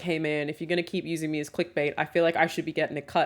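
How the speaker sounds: ordinary delivery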